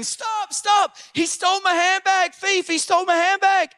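high-pitched imitation of a robbed girl; high mock cry for help. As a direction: mimic a victim calling after a thief, high-voiced.

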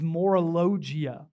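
"morologia" sounded out as a Greek term; careful Greek pronunciation. Shown as a demonstration. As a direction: pronounce "morologia" carefully for the congregation. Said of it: "try to pronounce this".

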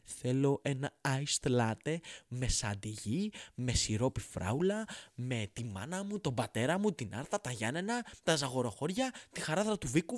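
mock fussy customer order. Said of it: "να λένε".

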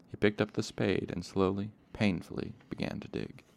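steady audiobook reading voice; story narration. A narrator's reading. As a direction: read it like a calm audiobook narrator. Reading the novel aloud.

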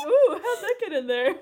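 high put-on wonder, laughing; cringey mock surprise. Friend mimicking Peter's rehearsed proposal, cringey mock surprise. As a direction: imitate a corny proposal line. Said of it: "It's so cringe".

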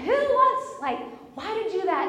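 high, loud sputtering outburst; losing it. Retold or imitated. Wife just lost it at husband, retold indignant outburst. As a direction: burst out high, then rush the question. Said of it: "And I just lost it".

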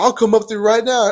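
high, loud mimicked threat; imitated angry threat. Stranger threatening to climb up, imitated high yell. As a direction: push it up high, mimicking him. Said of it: "he yells back".

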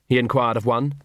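plain reading voice

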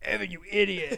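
mock a mother calling from offscreen; mom scolding from the back. Friend voices the mom yelling at her son, mild mock scolding. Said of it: "his mom in the back be like".

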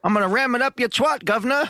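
mock British accent. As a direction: go cockney and cheeky.

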